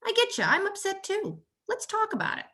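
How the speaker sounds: a touch of sing-song soothing parent; empathetic parent. Shown as a demonstration. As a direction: model calm empathy for the child. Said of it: "Step back and say".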